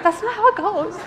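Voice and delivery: laughing retort. Retold or imitated. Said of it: "And she was like".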